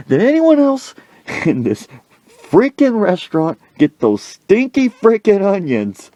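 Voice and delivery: very high, exasperated holler; hollered demand. Retold or imitated. Coach addressing the whole restaurant, high mock holler. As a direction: call out to the whole room, voice way up.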